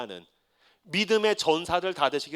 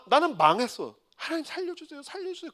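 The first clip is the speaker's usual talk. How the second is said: mock pleading; 8 semitones higher, 4 dB quieter than usual. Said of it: "그러고 왔는데".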